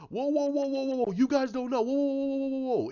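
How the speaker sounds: high, loud rapid-fire whoas; urgent retold halt. Hero halting his teammates, high urgent calling. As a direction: call them off loudly, pitched high. Superman halts the team.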